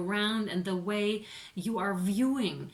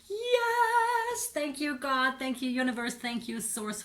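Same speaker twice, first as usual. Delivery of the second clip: elated thanks; 5 semitones higher than usual. Retold or imitated. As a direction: voice the Phoenix rising in joyful thanks. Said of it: "Phoenix Rising, totally like".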